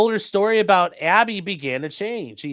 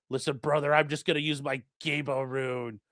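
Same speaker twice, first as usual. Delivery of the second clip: much softer, lower mock murmur; soft mock brother; 4 semitones lower, 8 dB quieter than usual. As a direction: mumble it like a sheepish pagan. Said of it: "is that what you talk to".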